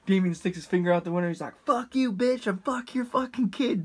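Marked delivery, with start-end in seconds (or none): 1.6-3.8 high, mock drunken insult; lightly voiced drunk buddy cursing at the lady; drunk friend. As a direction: sneer it out like a drunk jerk.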